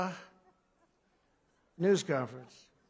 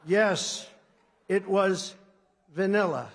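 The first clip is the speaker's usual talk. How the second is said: lightly voiced stiff reading of an answer; mocking a president reading a scripted answer; 4 dB louder, slower than usual. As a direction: read it flat off a card, a hint of mockery. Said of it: "he reads the answer".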